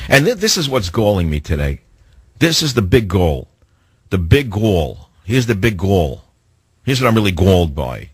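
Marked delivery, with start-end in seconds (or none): 2.4-8.1 lightly Brooklyn-accented grumble, low-key; Bernie Sanders. Real, not acted. Radio host griping about what galls him, slight Brooklyn accent. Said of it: "I'm starting to sound like".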